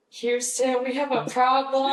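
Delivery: dramatic Apollo 13 line; movie quote voice. Retold or imitated. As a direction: deliver it like the famous astronaut line. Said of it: "I got to pull the".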